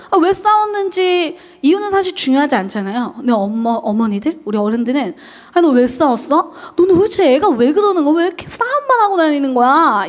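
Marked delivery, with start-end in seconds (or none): 5.5-10.1 scolding parent. Retold or imitated. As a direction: nag the child like an exasperated parent. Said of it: "이렇게 어른들은 이야기를 해요". (꾸짖는 엄마 말투)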